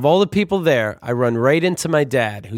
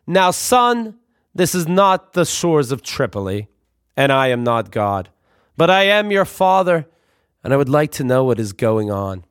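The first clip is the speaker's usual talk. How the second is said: calm dad voice. Retold or imitated. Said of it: "He says calmly".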